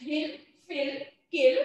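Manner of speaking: हिल, फिल, किल one word at a time, rhyming endings; listen-and-repeat drill. Shown as a demonstration. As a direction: model हिल, फिल, किल for pupils, pausing after each. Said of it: "इसे आप लोगों को बार बार repeat करना है". (हिल, फिल, किल को रुक-रुक कर दोहराने के लिए बोलें)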